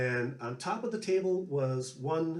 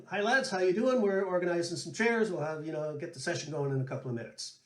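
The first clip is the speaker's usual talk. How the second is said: host, mildly voiced; 3 semitones higher than usual. Irish barman welcoming the musicians, lightly voiced cheerful greeting. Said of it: "said, you know".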